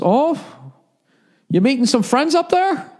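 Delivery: fake-friendly suspicious question; Canadian border guard. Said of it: "He's a Canadian dude".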